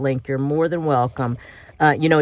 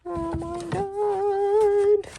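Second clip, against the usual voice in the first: laughing; much slower than usual. Real, not acted. Laughing at her mistake.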